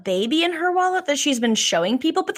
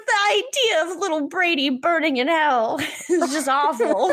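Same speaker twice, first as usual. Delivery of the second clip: laughing through a quote; 3 semitones higher than usual. Retold or imitated. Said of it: "And she's like".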